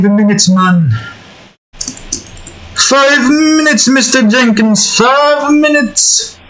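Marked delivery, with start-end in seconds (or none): 2.7-6.4 much higher, slow whiny pleading; groggy sleeper. Shown as a demonstration. Sleeper begging the alarm for more time, high slow whine. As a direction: beg for a snooze like a half-asleep kid. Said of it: "that voice is so".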